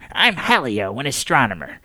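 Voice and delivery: lightly voiced old astronomer; a shy self-introduction; nervous old man. Old astronomer introduces himself to the Pope, hesitant.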